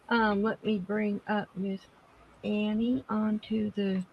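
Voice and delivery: muffled, faint mic audio; distant and muffled, hard to hear; barely audible. Real, not acted. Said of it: "I can barely hear you".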